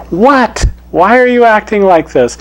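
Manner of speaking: can't believe what he's seeing; incredulous lion. Acted. Proud lion baffled by the timid cub, incredulous. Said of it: "lion's really scared".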